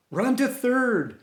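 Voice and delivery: high, loud, drawn-out shout. Retold or imitated. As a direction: call him on to third, stretching it out. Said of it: "and shouted".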